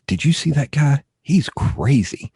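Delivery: imitating a stranger on the street; homeless guy. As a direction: lightly voice a bystander. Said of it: "one of the guys went".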